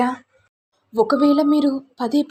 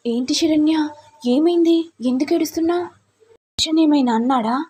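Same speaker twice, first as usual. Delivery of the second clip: raised-pitch anxious questioning; a lightly higher worried sister; concerned older sister; 5 semitones higher than usual. Acted. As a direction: rush to ask what happened. Sister asks why she cries.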